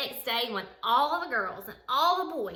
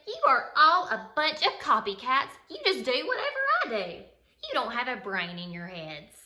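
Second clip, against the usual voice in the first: scornful scolding; 2 semitones higher than usual. Acted. Stephanie scolds copycat kids.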